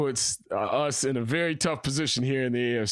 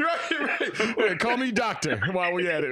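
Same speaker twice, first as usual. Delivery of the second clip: laughing; 5 semitones higher than usual. Real, not acted. Laughing at title joke.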